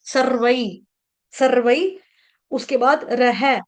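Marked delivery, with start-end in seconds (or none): 0.0-2.0 सर्वै ending in a gliding "vai"; correct ai ending. Shown as a demonstration. Teacher showing the right reading, सर्वै ending "-vai". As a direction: glide from a to i at the end of सर्वै. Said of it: "सर्वै बोलेंगे".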